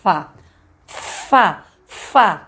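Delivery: fá repeated as an isolated syllable; sounding out fá. Shown as a demonstration. Teacher sounding out fá for a pupil. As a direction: clip out fá, fá, fá like a phonics drill. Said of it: "só".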